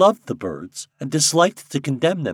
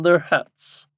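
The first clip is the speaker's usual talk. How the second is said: high, loud, slow royal proclamation; commanding king; 8 semitones higher, 5 dB louder than usual. A narrator's reading. King instructing Popopo in his duty, imperiously. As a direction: declaim the orders grandly, drawing words out.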